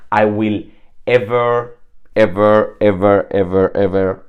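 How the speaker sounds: emphatic ever. Retold or imitated. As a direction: pile up the evers with force. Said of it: "that's like".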